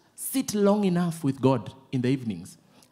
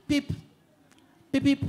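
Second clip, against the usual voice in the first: light quick pip pip of a greeting hoot; short cheerful beeps like a car saying hello; friendly horn beeps; 11 semitones higher than usual. Retold or imitated. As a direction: mimic a polite car horn.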